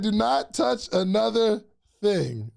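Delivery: slow, every word set apart; mock warning, one word at a time; a hint of a stern slow warning; slow stern quote. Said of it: "he said".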